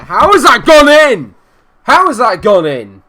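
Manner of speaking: high, loud, slow outraged yell at the screen; outraged shout. Real, not acted. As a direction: gamer yelling at a conceded goal, outraged. Conceding a goal in the game.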